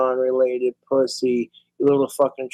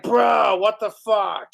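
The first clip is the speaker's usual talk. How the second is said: mock outraged yell; 5 semitones higher, slower than usual. Guy hit by a fart, yelling in mock disgust. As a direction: bark it in disbelief at your buddy. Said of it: "You'd be like".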